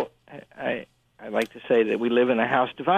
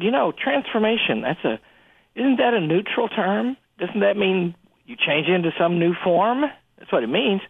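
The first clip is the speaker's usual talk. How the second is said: retelling argument; 4 semitones higher than usual. Retold or imitated. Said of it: "And I said to her finally".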